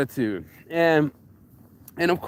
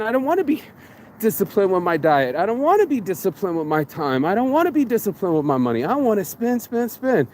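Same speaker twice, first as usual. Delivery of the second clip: higher, lazy whine of a spender; whiny undisciplined self; 5 semitones higher than usual. Retold or imitated. Talking himself out of discipline, a mock whine. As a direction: whine like someone who won't budge.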